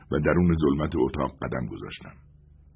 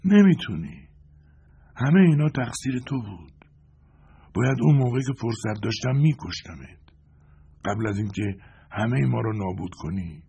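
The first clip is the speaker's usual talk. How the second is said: put-on high, frail accusing old man; quiet old man; 5 semitones higher than usual. Weak prisoner accuses John, high and frail. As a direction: blame him with what breath is left. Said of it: "آهسته گفت".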